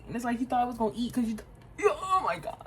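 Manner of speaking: real panic breaking through the words; panicky. Real, not acted. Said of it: "I'm panicking".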